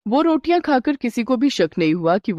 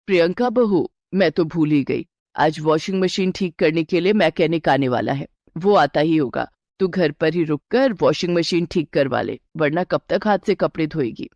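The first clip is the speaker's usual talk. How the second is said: a lightly lowered, steady mother-in-law; 3 semitones lower than usual. Acted. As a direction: reassure the bride as a knowing elder. Mother-in-law deflects bride. (हल्की सी नीची आवाज़ में सास)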